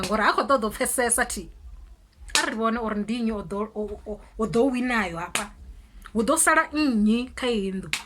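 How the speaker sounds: a hint of a defiant rant at the mother; mock confrontation. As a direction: square up to her.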